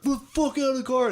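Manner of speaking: high-pitched acted demand; mock angry order. Ordering a guy out of the car, high mock anger. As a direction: play an agitated guy at a car. Acting out the street argument.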